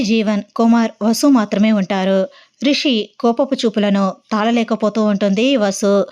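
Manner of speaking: ordinary delivery, nothing marked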